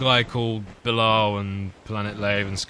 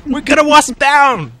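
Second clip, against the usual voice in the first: much higher, loud mock alarm; man down shout; 12 dB louder, slower than usual. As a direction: bellow like a battlefield medic.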